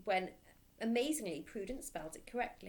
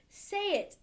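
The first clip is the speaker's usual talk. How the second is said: louder, higher bellowed order; 13 semitones higher, 7 dB louder than usual. Acted. Headmistress demanding the answer, loud bellow. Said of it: "bellowed the Trunchbull".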